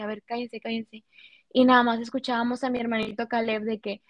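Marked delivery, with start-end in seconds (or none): 0.0-1.0 soft urgent hush, softer; whispered shush to the family. Retold or imitated. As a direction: hush the room quickly. Carlos hushing everyone.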